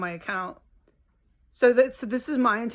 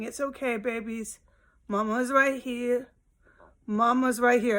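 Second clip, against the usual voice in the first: soothing the cats; 3 semitones higher than usual. Retold or imitated. Mom soothes her scared cats through sirens, tender coo. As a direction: hush frightened pets gently. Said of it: "that's how I talk to them".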